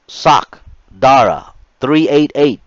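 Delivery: loud, high drill instructor calling names; barked roll call. Retold or imitated. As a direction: call the name like a drill sergeant.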